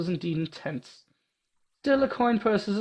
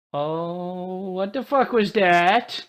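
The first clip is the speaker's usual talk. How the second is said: shocked; 2 semitones higher, much slower than usual. Real, not acted. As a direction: caught off guard by a roar. Shocked reaction to loud sound.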